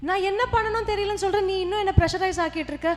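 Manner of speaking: loud, high, snapping back at his wife; husband yelling at his pressuring wife; frustrated shouting. Acted. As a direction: yell back, cornered and frantic. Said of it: "பின்ன கத்தாம".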